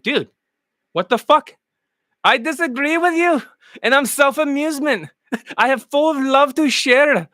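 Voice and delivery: lightly put-on Indian accent with a laugh; mock Indian accent.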